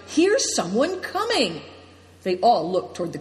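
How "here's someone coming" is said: high, drawn-out call; shouted alert. A narrator's reading. Big Tiger spots someone coming, shouting. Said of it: "for Big Tiger shouted".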